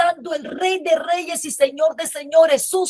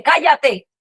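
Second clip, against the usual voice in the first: a louder scornful hush; shushing crowd; 3 semitones higher, 5 dB louder than usual. Retold or imitated. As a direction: brush him off sharply. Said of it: "haciéndola así con el pie".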